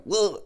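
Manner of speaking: high wavering "whoa" noise; imitated woozy whoa. Imitating her flipping out of consciousness.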